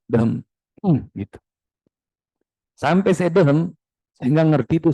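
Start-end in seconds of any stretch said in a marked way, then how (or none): 0.1-0.5 mock authoritative throat-clear. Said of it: "saya pura-pura berwibawa".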